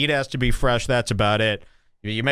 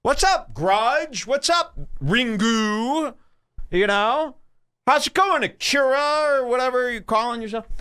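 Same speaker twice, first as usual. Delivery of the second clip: high, teasing mock greeting to an Asian girl; hammed-up high sing-song hello; 10 semitones higher than usual. Greeting a girl he calls Battle Royale, high mock hello. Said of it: "I go".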